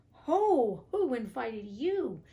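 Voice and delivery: loud, high shout, slowing on the question; shooing flies. A narrator's reading. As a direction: chase the pests off your bread. Tailor shooing flies off jam.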